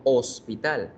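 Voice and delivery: "hospital" en español, arrancando en la O; hache muda. Shown as a demonstration. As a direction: pronuncia "hospital" sin sonido alguno de hache. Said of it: "No suena en la palabra hospital". (con hache muda)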